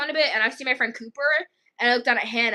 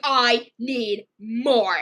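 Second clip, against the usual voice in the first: very slow, drawn-out mock demand; demanding hungry girl; much slower than usual. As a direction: imitate a child insisting, word by word.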